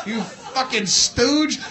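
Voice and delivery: normal talking voice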